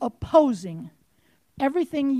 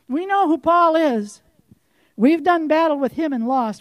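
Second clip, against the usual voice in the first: louder, emphatic spirit voice; forceful repeat; 2 semitones higher, 4 dB louder than usual. Acted. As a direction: hammer it home louder.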